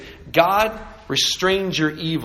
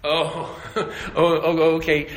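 chuckling oh oh oh; laughing. Real, not acted. Preacher laughs at the brothers' foolishness, chuckling. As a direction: laugh at the knuckleheads.

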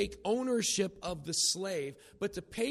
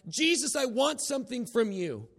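high, raised demanding plea; Bartimaeus calling out; 8 semitones higher, 5 dB louder than usual. Retold or imitated. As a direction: call insistently for attention. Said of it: "Bartimaeus was like".

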